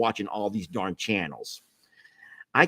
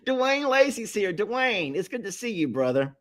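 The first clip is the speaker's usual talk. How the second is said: excited greeting; 11 semitones higher than usual. Real, not acted. Greeting friend, high, laughing.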